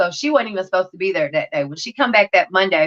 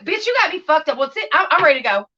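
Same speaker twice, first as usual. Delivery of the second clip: mock indignant retort; 5 semitones higher, faster than usual. Retold clash with counselor.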